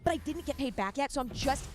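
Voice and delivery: mock-sweet, faux concerned; sugary guilt trip, lightly hammed; passive-aggressive sweet. Shown as a demonstration. Asking a friend for the money, mock-sweet and passive-aggressive. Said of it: "My favorite thing to do is be like".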